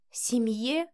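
bitter. A narrator's reading. Wife echoing her husband's word, bitterly. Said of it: "с горечью произнесла Вика".

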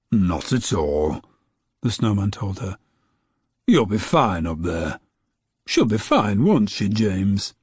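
a kindly snowman taking his time; gentle snowman. Acted. Snowman reassures grandma.

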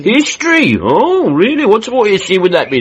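high, loud, surprised questions; surprised interest. Acted. Mr Larkin amazed that Edith studies history, high and loud. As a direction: perk up, amazed at the news.

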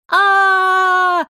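long, high, slow shout of joy; girl screaming with joy; delighted scream. A narrator's reading. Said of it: "заорала от восторга Оля".

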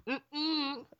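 high eight-bit droid hum; chip tune droid. Shown as a demonstration. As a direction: buzz it like a retro game sound. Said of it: "like a chip tune, eight-bit kind of quality".

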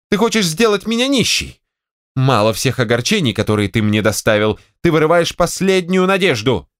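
aggrieved wife. Acted. Wife to general, reproachfully wounded. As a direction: play the victim at him.

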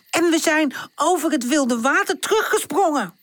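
giggly proud telling; laughing boast. Acted. Charlie boasting to tante, laughing. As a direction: laugh through the brag.

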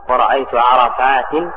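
عرفات ending in nunated kasra, "-tin"; kasra with tanween. Shown as a demonstration. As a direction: slowly pronounce عرفات as "arafaatin". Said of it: "وينصب بالكسرة". (عرفات بتنوين الكسر)

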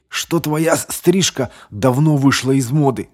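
hoarse. A narrator's reading. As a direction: croak it with a stumble. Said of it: "прохрипел он".

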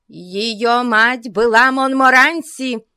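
high, slow proud shout; cry with all her might. A narrator's reading. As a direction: bellow the name proudly. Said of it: "воскликнула ... со всей мочи". (во весь голос)

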